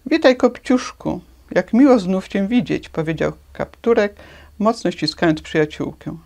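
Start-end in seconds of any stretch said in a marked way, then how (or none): 0.1-2.9 joyful greeting. Acted.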